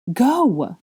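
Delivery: urgent shouted order. A narrator's reading. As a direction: order her away. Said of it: "Draco ordered".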